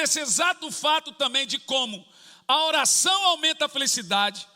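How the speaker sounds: loud, high, emphatic sermon delivery; fervent preaching. Acted. Pastor teaching the church about prayer's benefits, fervently. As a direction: drive the point home to the congregation.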